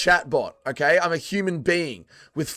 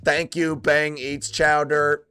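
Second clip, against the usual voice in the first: slow, measured machine readout; mock chat bot; slower than usual. Streamer thanking a donor as if a chat bot, slow robotic readout. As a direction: read it out slowly like a bot. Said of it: "chat bot".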